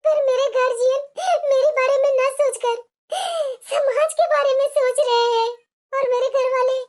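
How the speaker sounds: measured inner monologue in short phrases; voice-over monologue. Acted. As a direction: narrate the bride's plight, phrase by phrase. (आपबीती सुनाता voice-over)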